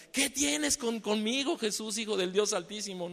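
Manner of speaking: high, confronting cry; demon's challenge. Retold or imitated. The possessed man challenging Jesus, high and defiant. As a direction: challenge him with a sudden high shout.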